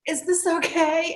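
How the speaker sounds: high, tentative imitated question; tentative client. Client unable to move asks practitioner, tentative. Client unsure during strange experience.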